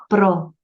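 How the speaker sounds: "próximo" com o PRÓ destacado; antepenúltima tônica. Shown as a demonstration. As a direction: marque o PRÓ de "próximo" e pause antes do resto. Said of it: "é a antepenúltima". ("próximo" dividido, com peso na primeira sílaba)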